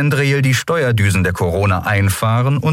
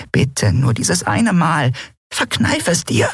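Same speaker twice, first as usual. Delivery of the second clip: much higher, slow and begging; pleading; 10 semitones higher than usual. Acted. Nelen begging her friend not to jinx it, high and pleading.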